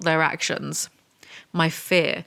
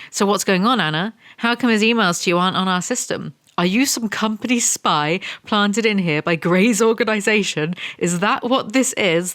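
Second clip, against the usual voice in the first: accusing villain; 2 semitones higher than usual. Acted. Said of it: "cartoon villain".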